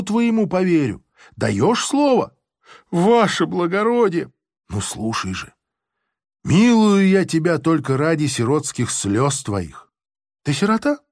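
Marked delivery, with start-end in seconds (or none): 4.7-11.0 softhearted voice. Acted. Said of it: "таким мягкосердным голосом".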